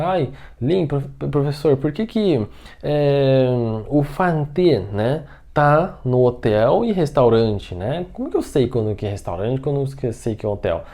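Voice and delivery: mock confused student asking the teacher; imitating a student. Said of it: "dúvida que muitos alunos me perguntam". (imitando um aluno confuso, de leve)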